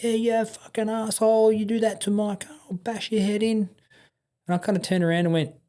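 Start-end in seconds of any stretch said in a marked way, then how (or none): 0.0-3.7 high, mock-furious threat from the mechanic; mimicked angry threat. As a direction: ham up the angry mechanic yelling.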